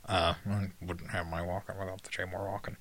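lightly voiced Walken impression, low and soft; Christopher Walken impression. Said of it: "doing an impression of Jay Moore, doing an impression of Christopher Walken".

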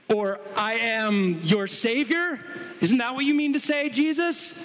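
high, quickening mock challenge. Pharisees pressing Jesus to add a word, in mock challenge. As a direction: needle him like a sceptic.

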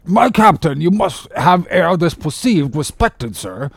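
slow, high-pitched solemn doctor; imperturbable surgeon. Acted. Surgeon addressing Ahab, imperturbable and slow. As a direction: address him with ponderous courtesy.

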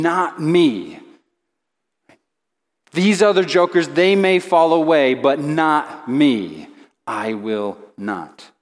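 emphatic boast, dropping to a slow, firm finish; without hesitation. Retold or imitated. Passionate Peter answers Jesus's prediction, without hesitation. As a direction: insist with full conviction, then land it slowly. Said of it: "he responds without hesitation".

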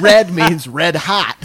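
slow, deadpan Michael Scott logic; Michael Scott impression. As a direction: spell it out slowly like a clueless boss. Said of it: "the way that fucking Michael Scott".

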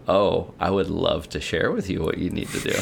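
lightly voiced knowing grin; grinning Jesus. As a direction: lean in with a grin and offer it gently. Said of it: "he leans in with a grin and goes".

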